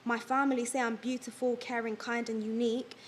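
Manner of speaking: measured spoken-word poem delivery; poem recitation. Acted. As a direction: recite it line by line, pausing between verses. Recites own written poem.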